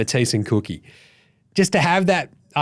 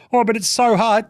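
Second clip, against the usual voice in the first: mock whinging; 6 semitones higher than usual. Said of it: "Shut up about the hard stuff".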